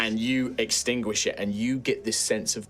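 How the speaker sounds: softly told scene setting; game master narration. Acted. Game master describes the grateful forest healing, soft narration. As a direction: narrate gently with measured pauses.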